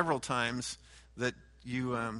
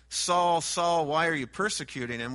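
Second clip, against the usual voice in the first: calling out; 2 semitones higher, 3 dB louder than usual. Acted. Voicing the Lord calling Saul.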